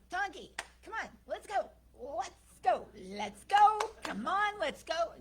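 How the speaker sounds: loud, high urging shouts building; calling the donkey. Retold or imitated. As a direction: yell at the donkey to get moving. Coaxing a stubborn donkey.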